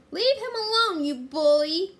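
high, loud, outraged yell; crying out. A narrator's reading. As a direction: shout down a bully. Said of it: "she cried".

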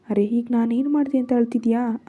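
ordinary delivery, nothing marked

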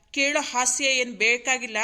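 loud, punched-out scolding; acted annoyance, hammering each word; irritated rebuke. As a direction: shut the request down angrily. Husband angrily rejects wife's request.

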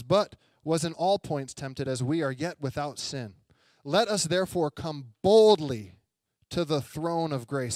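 slow, deliberate Bible reading, swelling on "boldly"; scripture reading. Acted. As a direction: read the verse out with weight. Reads scripture aloud.

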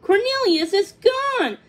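high, loud, upset cry; sadly. A narrator's reading. Thumbelina tells the swallow of her loss, sadly. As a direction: lament it in a high voice. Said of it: "Thumbelina said sadly".

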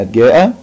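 جاء with the aa drawn out; long alif in جاء. Shown as a demonstration. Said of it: "كلمات بيها مد بالألف". (مدّ الألف في جاء)

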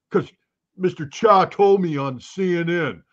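slow mock dumb American; dumb American accent. Critic citing TV news as proof, dumb American accent. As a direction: explain it slowly as a dumb American. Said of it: "my worst dumb American accent".

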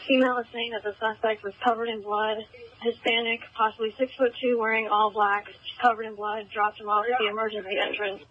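crackly radio transmission; clipped call over a police radio; terse radio update. Real, not acted. Field unit over police radio.

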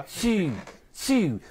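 high, falling "tieu" with a Y glide; French-style pronunciation. Shown as a demonstration. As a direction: model "tieu" for a student to copy. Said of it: "Now you say that".

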